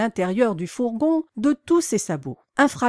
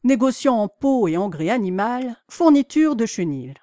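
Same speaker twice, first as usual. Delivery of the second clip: reading aloud. A narrator's reading.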